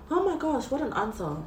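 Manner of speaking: overwhelmed, laugh and cry at once; laughing through tears. Real, not acted. Moved by the verse's answer.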